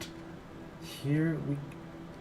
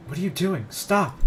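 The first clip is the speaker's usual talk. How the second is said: alarmed shout; 7 semitones higher, 6 dB louder than usual. Acted. Pulling Sayori back from the ledge.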